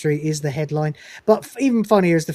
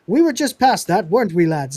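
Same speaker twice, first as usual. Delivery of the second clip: put-on chirpy lads' Mancunian accent, pitched up; 3 semitones higher, 3 dB louder than usual. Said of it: "they do Mancunian accents".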